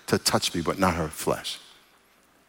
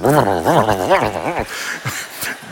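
horse whinny imitation; 3 semitones lower than usual. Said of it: "they say".

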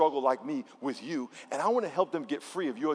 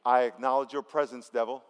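leading a call-and-response prayer; 3 semitones lower than usual. Shown as a demonstration. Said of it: "say this out loud".

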